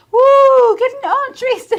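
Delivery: high, loud flirty coo. Acted. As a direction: swoon like a lover. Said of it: "like, little".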